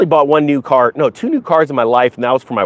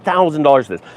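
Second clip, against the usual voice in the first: imitating friend's delivery. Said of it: "That's exactly how he said it".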